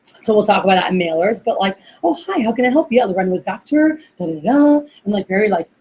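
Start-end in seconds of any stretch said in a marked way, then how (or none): 2.0-4.8 mock formal company greeting. Trainer mimicking Lorena's call to clients, stiffly formal. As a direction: imitate a stiff receptionist reeling off a script. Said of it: "a very formal company".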